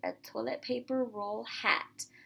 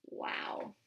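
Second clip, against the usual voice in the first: awed wow; 5 dB quieter than usual. Real, not acted. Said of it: "amazed at feeder".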